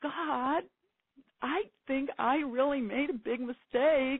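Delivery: acted-out sobbing. Retelling what she said to God while feeling sorry for herself, acting out sobbing. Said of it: "I'm just like sobbing".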